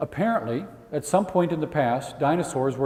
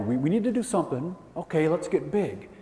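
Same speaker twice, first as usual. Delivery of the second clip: mock dinosaur plan; 4 semitones higher than usual. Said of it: "That's the impression".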